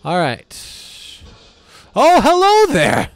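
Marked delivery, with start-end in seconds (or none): 1.9-3.1 very high, loud, squealing hello; squeaky high greeting. Pretend. Gamer greets a new monster in a squeaky cartoon voice.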